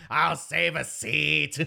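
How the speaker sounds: slow put-on voice; character voice. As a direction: voice the character slowly. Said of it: "Flower Crowd's like".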